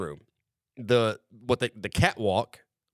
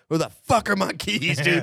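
deadpan insistence; 5 semitones higher than usual. Retold or imitated. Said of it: "I don't lose composure".

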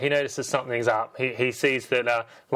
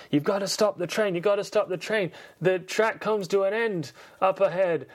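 high, urgent radio warning; urgent police warning; 7 semitones higher than usual. Retold or imitated. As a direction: press the danger on him, pitched up. Police urgently warn Keanu.

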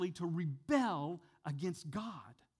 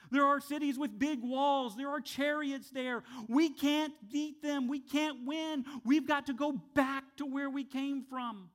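high, loud panicked pleading; fearful spies; 8 semitones higher, 4 dB louder than usual. Retold or imitated. Preacher voicing terrified spies, panicky and loud. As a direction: whip up the spies' fear and doubt. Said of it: "Ten of the spies come back terrified".

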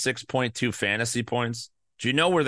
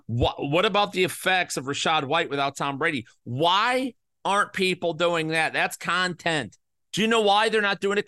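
heated rant building; 4 semitones higher than usual. Real, not acted. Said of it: "that infuriates me".

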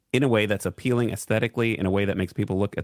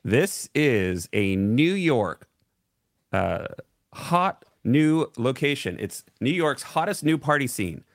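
club-guide skit character; 3 semitones higher, slower than usual. Acted. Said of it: "skit from Saturday Night Live".

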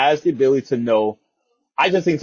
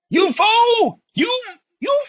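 high, far villain yell; villain shout; 3 dB louder, slower than usual. Pretend. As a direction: cry it like a cartoon villain. Sudden villain shout at outro.

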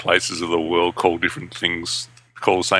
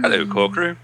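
put-on reading voice; 11 semitones higher than usual. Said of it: "why I'm speaking like this".

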